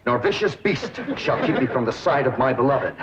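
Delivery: grand lovestruck vow, rising to a high eager call; a hammed-up smitten hero; lovesick charge. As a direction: announce yourself like a smitten knight. Lovestruck suitor rushing in.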